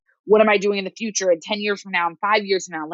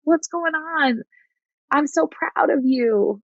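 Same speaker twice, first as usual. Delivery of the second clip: gentle grandmother voice; 7 semitones higher than usual. Retold or imitated. Counselor imitating a grandmother checking in, gently caring. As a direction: lightly voice a doting grandmother checking in. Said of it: "Imagine her guiding you, checking in on you".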